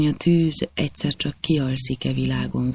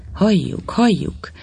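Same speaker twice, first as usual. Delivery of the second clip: crowd calling out; 6 semitones higher, slower than usual. A narrator's reading. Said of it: "kiáltották a többiek is".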